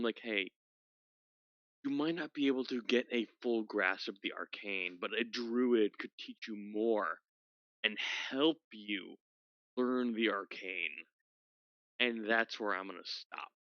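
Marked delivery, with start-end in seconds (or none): 0.2-11.1 lightly voiced wizard. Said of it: "my wizard will attempt to tell him".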